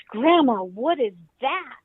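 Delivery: put-on high, loud child's startled call; a toddler spooked by a strange noise; startled little granddaughter. Grandmother imitating the startled granddaughter hearing the heater, high child voice.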